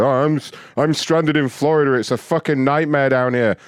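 a hint of a whiny stranded traveller; whiny mock quote. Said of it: "You say stranded in Florida like it's fucking Beirut".

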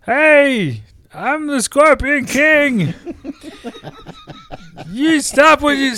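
slow, hammy movie-star voice; Rock dubbing voice. Acted. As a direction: ham up a blockbuster dub. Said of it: "to do The Rock's voice".

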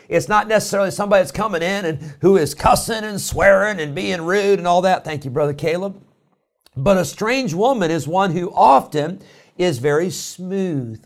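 rising, forceful pulpit delivery; preaching. Acted. Pastor warning his congregation, forceful preaching. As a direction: preach it out to the church.

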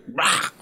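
short mock monster roar; creature roar. Creature struck by a thrown teddy, mock roar. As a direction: roar like a creature hit by a toy. GM voices creature being hit.

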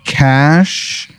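high, very slow drawn-out question; sly doctor aside. Retold or imitated. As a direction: stretch it out slyly. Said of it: "he looks at you and he goes".

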